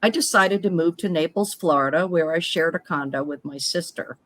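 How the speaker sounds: measured, scripted first-person storytelling; reading personal story aloud. Acted. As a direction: read your life story out in phrases, pausing between them. Reads prepared personal story aloud.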